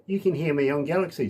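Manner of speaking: a hint of an artist's radio drop; sample voice drop. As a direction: demonstrate a station greeting, stretching the hello. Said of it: "How would you like to just say".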